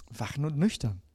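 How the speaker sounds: softly echoes "Wachen und nüchtern" to itself; quiet echo. Shown as a demonstration. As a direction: repeat it quietly, as if thinking it over. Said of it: "sondern wachen und nüchtern sein". („Wachen und nüchtern“ leise nachklingend wiederholt)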